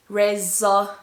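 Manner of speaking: "resolution" broken into separate syllables with long gaps. Shown as a demonstration. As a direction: say "resolution" piece by piece, re... zo... lu... tion. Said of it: "Do you think it's the first syllable".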